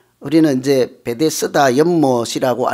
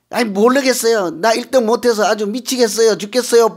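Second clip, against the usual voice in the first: higher, fretful whine; whining sick man; 5 semitones higher than usual. Acted. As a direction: moan about being stuck. (높은 목소리로 징징대는 병자)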